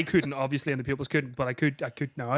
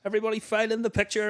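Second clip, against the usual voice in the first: imitated teacher; 6 semitones higher, faster than usual. Teacher organising the photo.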